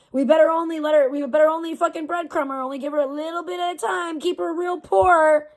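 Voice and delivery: sneering imitation of the payers; mocking company voice. Venting viewer-facing about payout, mock patronizing voice. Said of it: "I feel like they're treating me like a child".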